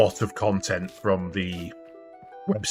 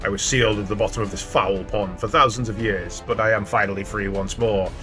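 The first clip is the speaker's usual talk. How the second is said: lightly voiced gloating villain; a hint of a dark lord's boast. Reads villain dialogue aloud.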